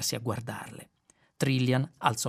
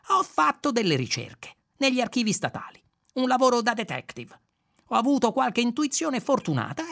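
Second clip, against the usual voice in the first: lightly voiced swaggering Zaphod, pitched higher; brash Zaphod; 10 semitones higher, 4 dB louder than usual. Zaphod boasting to Ford, higher cocky voice. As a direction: toss it off like a cocky rogue.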